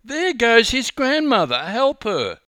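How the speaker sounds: put-on high, loud urgent old woman; alarmed old lady. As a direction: fuss in alarm.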